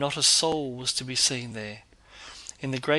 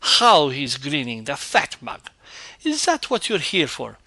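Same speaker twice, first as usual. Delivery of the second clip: put-on loud, high old woman's scolding; scolding housekeeper; 5 semitones higher, 7 dB louder than usual. A narrator's reading. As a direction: tear into the lazy porter, loud and high.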